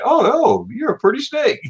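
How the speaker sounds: high, cooing voice to a snake; imitated baby talk to a snake; mock sweet talk. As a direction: coo at the snake like a pet. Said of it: "go up to him and say".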